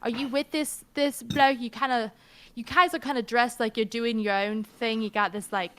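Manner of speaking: lightly voiced mermaid with an odd mixed accent; weary, exasperated mermaid complaining; mermaid character. Game master questions visitors as mermaid.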